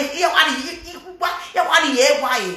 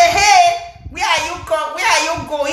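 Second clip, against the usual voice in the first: mock husband; 4 semitones higher than usual. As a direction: imitate his video greeting. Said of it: "He say".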